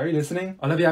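ordinary talk

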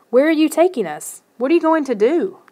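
high, pleading questions; anxious wail, not at full force. A narrator's reading. Captured kid questions the gnomes carrying him, anxious high wail. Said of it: "I wailed".

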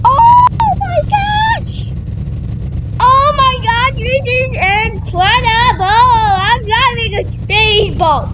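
giddy shrieking excitement, slowing on the last line; thrilled squeal. Real, not acted. Thrilled driving speedboat in game.

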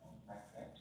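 monotone recitation with little stress; monotonous. Real, not acted. Student reciting a self-introduction to the teacher, monotonous. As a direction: recite it haltingly, without stressing key words. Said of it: "still শুনতে কিন্তু একটু monotonous শোনাচ্ছে".

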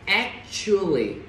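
"Actually" drawn out slowly with a "chu" in the middle; "chu", not "tu". Shown as a demonstration. Teacher correcting a "tu" reading, slow "Actually" with a clear "chu". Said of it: "Không đọc S tu các bạn ha".

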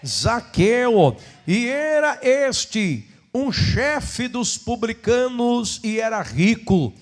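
slow solemn Bible reading; scripture reading. Acted. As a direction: read the verses with reverence. Reads Bible passage aloud.

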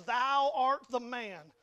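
loud, drawn-out pronouncement, each word weighted; forceful prophet confronting a king; finger-pointing accusation. Retold or imitated. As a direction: point the finger and proclaim it slowly. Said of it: "Nathan points his finger at".

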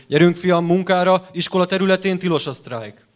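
acted teacher's brisk scolding command; teacher ordering student. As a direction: order a slacking pupil to work. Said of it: "mondhatom neki".

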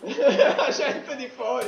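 slow laughing echo. Real, not acted. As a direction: laugh through the words.

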